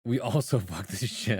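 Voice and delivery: plain line broken by a real laugh; laughing repeat. Real, not acted. Streamer recalling the peasant line, laughing through it.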